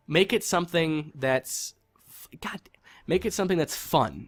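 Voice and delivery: exasperated whisper. Real, not acted. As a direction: breathe the plea out in exasperation. Exasperated plea to the developers.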